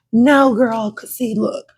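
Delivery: loud, high, laughing excuses; excited rambling. Acted. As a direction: babble excuses about your hair. Acting out flustered hair excuses.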